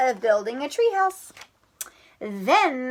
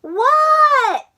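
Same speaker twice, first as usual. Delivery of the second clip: Froggy What; 7 dB louder than usual. Acted. Froggy voiced in story.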